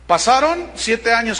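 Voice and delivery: usual speaking voice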